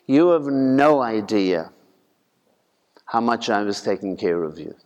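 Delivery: hushed low tender reply; gentle whisper. Retold or imitated. Jesus answers gently.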